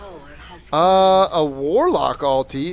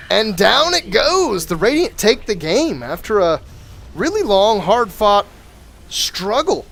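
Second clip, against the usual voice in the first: excited game-ending call; 4 semitones higher, slower than usual. Acted. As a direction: sell the big finish as the caster. Game ends, caster calls it.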